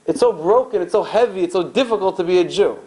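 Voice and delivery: mild mock kvetch; weary lament. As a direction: groan it out like a tired old-country parent. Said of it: "they would say to their children".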